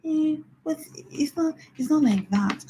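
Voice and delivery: wife protesting. Retold or imitated.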